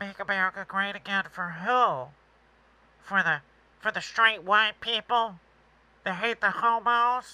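poor put-on nasal, near-crying, teary voice. Mocking a woman running for president, a bad nasal teary impression. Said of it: "she's got this nasally".

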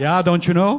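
mock, put-on Minnesota accent. Joking about not having a Minnesota accent, say this in a Minnesota accent. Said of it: "Minnesota accent".

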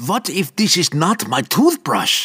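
sudden, high cry of pure terror. Struck by a terrible sudden thought, he cries out in terror. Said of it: "Albrecht cried out".

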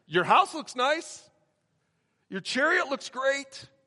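put-on sarcastic prophet voice. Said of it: "a little bit of sarcasm in Haggai's voice".

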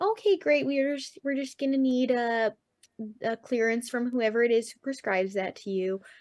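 put-on doctor's voice with a Chicago accent. Retelling what they said to the speaker, in a chicago doctor accent. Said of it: "that's a great Chicago doctor accent".

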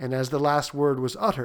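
ordinary delivery

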